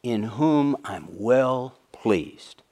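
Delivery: very slow, solemn voice from the heavens. Acted. God speaking from heaven over his Son, slow and solemn. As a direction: let each word fall slowly and gravely. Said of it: "a voice comes out of the heavens and says".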